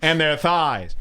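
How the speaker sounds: high, slow, leering mock creep; Anthony Cumia. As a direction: draw it out with creepy relish. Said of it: "He goes".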